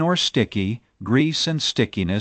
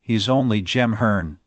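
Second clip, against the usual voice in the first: Martha voice; slower than usual. Acted. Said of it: "said Martha".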